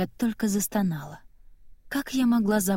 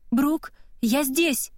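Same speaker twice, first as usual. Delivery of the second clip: high, slow call from the corridor as Nora; drawn-out high call to her sister down the hall; calling from the hallway; 7 semitones higher, much slower than usual. A narrator's reading. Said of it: "окликнула меня из коридора Нора". (Нора зовёт сестру из коридора, протяжно и высоко)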